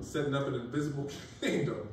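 laughing through the words; fighting back a laugh; stifled giggles. Real, not acted. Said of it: "I'm trying not to laugh".

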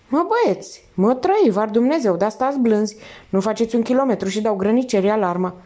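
a lightly voiced wisecracking thief; streetwise thief. Thief warns the others.

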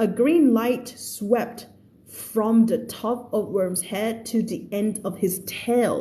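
slow, deliberate reading aloud; story read-aloud. Acted. Teacher reading the story to online students, slow read-aloud. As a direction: read it out slowly, word by word.

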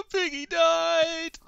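extremely high, tiny cartoon voice; squeaky baby voice. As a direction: coo at the piggy like a small child. Baby voice to Minecraft pig.

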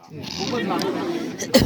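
slow, whispered sarcastic aside; a sly whispered joke to the kids; mock whisper. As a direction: breathe it out, slow and mocking. Sarcastic aside on Khan's youth.

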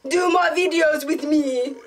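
Jamaican accent. Shown as a demonstration. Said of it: "that's a bad accent".

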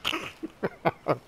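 very high falsetto reply with a giggle; Linda voice. Pretend. High squeaky co-host Linda answering the reporter.

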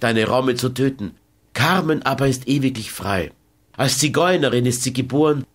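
a hint of cold, unbending pride; Carmen's proud refusal. Carmen tells José it is over, lightly proud.

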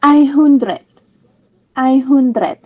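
ไอฮุนเดรด said as eye-hoon-dret; teacher models ไอฮุนเดรด for one hundred; German einhundert. Shown as a demonstration. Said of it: "จะออกเสียงว่า".

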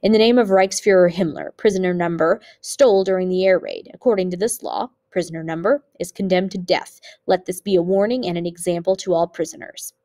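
formal verdict with weighted words; emphasizing every word. A narrator's reading. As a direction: lean on each word like a sentence being read out. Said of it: "emphasizing every word".

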